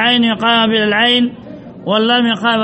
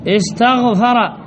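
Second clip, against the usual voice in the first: slow syllable by syllable; much slower than usual. Shown as a demonstration. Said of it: "لو أتينا بوزن".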